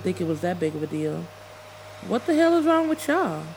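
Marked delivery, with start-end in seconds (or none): 2.1-3.4 angry demand. Acted. Angry outburst at coworkers.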